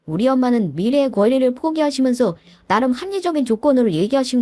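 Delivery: lightly voiced boyfriend, pressing; hurried boyfriend. Boyfriend hushing his fiancée, lightly hurried. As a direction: hush her quickly, a mild touch of urgency. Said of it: "다급하게 저의 입막음을 하듯 말했습니다".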